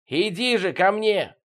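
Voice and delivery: high, slow, drawn-out call; impatient calling; straining yell. A narrator's reading. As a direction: summon someone from afar. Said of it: "надрывался Витёк".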